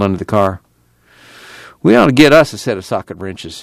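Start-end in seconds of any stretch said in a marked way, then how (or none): 1.8-3.6 calling out. Acted. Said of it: "he called".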